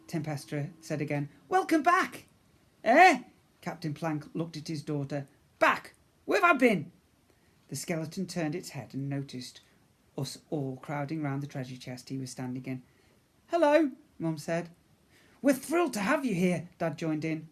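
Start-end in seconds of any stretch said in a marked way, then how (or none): 1.5-2.2 daughter. Acted. Daughter to father. 2.8-3.2 confused. Acted. Captain confused. 5.6-6.9 confused captain. Acted. 13.5-13.9 mum. Acted. Mum greets. 15.4-16.7 dad. Acted. Dad greets.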